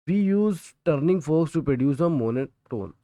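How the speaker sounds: reading the textbook line word by word, slowly; slow, deliberate dictation for students to copy. Shown as a demonstration. Teacher dictating a textbook definition to students, slowly.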